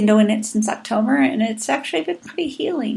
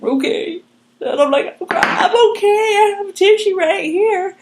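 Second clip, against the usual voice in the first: high, slow put-on voice of her younger self; high mock voice; 9 semitones higher, slower than usual. Client answering her counselor in a high, slow put-on voice. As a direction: pitch it way up, playing the flustered patient. Speaker voices herself in story.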